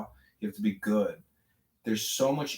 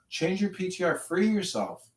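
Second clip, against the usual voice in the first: higher-pitched exhortation; insistent urging; 6 semitones higher than usual. Real, not acted. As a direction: press the plea home, voice raised in pitch. Repeats exasperated plea to listener.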